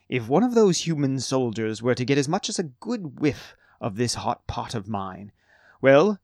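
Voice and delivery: a lightly voiced boastful old cook; proud halfling cook. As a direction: brag about the stew with a wink. Gambo boasts about his hot pot.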